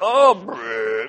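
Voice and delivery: loud satisfied "oh" into a shivery brr; acted shiver. Chai drinker stepping out into the night, acted shiver. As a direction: shudder out a noisy brr. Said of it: "you walk out and you're like".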